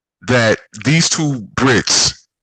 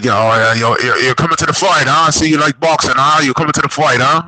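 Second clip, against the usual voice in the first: mock drunk gym guy; 6 semitones higher than usual.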